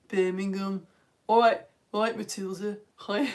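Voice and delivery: put-on deliberately ropey Brummie accent; bad Birmingham accent. Teacher greeting Matilda in her accent, bad Birmingham accent. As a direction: have fun faking Birmingham speech badly. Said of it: "accents are so fun to do badly".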